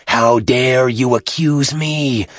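put-on slow, drawn-out indignant old priest; slow, wounded indignation; affronted gasp. A narrator's reading. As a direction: gasp it out, stretching each word. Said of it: "gasped the philologist".

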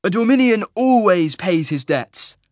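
high, loud, cheery declaration; upbeat, projected hero's voice; bright. A narrator's reading. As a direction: announce it proudly and slowly. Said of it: "Cole said brightly".

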